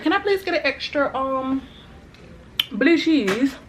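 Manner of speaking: high-pitched mock British voice; hammed-up British request; wannabe British accent. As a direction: put on a playful, over-polite British accent. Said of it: "That's my wannabe British voice".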